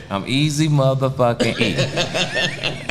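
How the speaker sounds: slow, swaggering mock rapper boast; imitating a rapper. Retelling a rapper's reply with slow swagger. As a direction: drag it out with a laugh like the rapper. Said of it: "That nigga looked at me and said".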